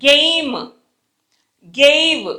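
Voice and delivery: గేమ్, గేవ్ drawn out as "geyim, geyiv"; గేమ్, గేవ్ spaced apart, each with an "ey" vowel; EY glide. Shown as a demonstration. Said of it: "అలా అనాలి friends".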